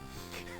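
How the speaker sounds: short, soft breathy laugh; rueful laugh. Real, not acted. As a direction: laugh quietly at your misery. Laughing at own misery.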